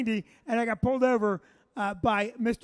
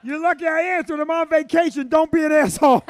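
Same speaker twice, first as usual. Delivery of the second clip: mock annoyed trooper; 4 semitones higher, 8 dB louder than usual. Reading trooper's annoyed text aloud.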